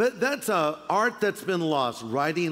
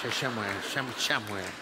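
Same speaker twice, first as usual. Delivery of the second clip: mock reply; 10 semitones lower, 6 dB quieter than usual. Answering voice in the skit.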